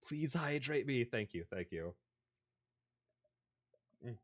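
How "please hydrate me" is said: dry mouth voice. Retold or imitated. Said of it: "my entire mouth be like".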